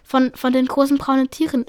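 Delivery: nervous stumble on von, von; stammering. Acted. Taubenpfote stammers to the staring cats, nervously. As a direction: trip over the first words, unsure. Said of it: "stammelte sie".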